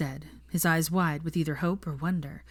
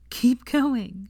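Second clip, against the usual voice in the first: gentle urging; 6 semitones higher, 3 dB louder than usual. Acted. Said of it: "she urged gently".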